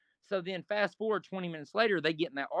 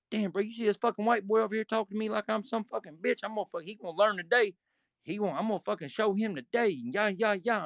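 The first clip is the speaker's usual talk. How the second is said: higher, hyped grievance voice; mock complaint; 4 semitones higher than usual. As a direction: lightly act out the gossiping hothead. Bull complaining to guys.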